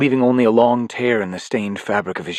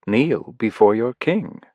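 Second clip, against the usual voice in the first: smug villain; 3 semitones higher, slower than usual. Acted. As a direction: sneer the congratulations. Life Force commands Briggon.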